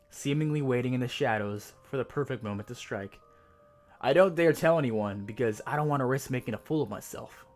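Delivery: measured, ominous horror narration; hushed creeping horror. A narrator's reading. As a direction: read it like a creepy campfire tale. Creepypasta horror story reading.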